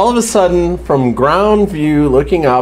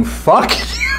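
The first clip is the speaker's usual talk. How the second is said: higher, laughing fuck you; mock outraged; 9 semitones higher than usual. Fans reacting to Glenn's death, mock outraged fuck you. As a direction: spit it out in disgust.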